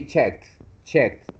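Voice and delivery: "checked" as one syllable ending in a T sound; final D as T. Shown as a demonstration. Teacher corrects student's pronunciation, "checked" ending in a T sound. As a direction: say "checked" with the E dropped and the D like a T. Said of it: "just pronounce the D like a T".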